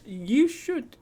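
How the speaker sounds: bright, eager urging; excited high call. Real, not acted. Urging a chat viewer to visit.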